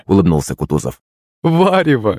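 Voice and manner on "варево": high-pitched playful exclamation; amused correction. A narrator's reading. Mother teasing about the soup, amused. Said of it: "засмеялась маман".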